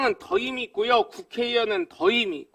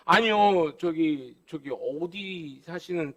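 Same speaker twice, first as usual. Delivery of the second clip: suddenly polite; 5 semitones lower, slower than usual. Retold or imitated. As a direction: shrink back and turn humble. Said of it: "다시 또 공손해져". (공손해진 구의원의 기죽은 말투)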